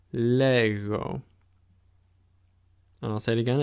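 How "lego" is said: lego with a throaty gamma g; model pronunciation. Shown as a demonstration. Teacher showing the tough gamma in lego. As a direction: lean into the rough g in lego. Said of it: "tough gamma sound".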